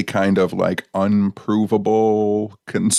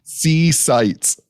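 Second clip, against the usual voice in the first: newsreel announcer; 6 semitones higher than usual. Acted. Announcer bit.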